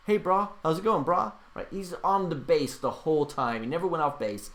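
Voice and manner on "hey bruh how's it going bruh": raised-pitch mock Hawaiian pidgin greeting; fake Hawaiian accent. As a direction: imitate a poser putting on a Hawaiian accent. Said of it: "he picked up the Hawaiian accent".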